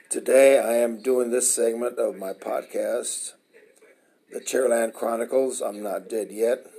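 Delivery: hoarse and raspy after surgery; rough, strained post-op voice. Real, not acted. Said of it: "pardon my voice, that's why it sounds like that".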